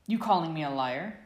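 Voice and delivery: loud challenging demand. A narrator's reading. Sirius squaring up to James, loud challenging demand. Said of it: "Sirius demanded".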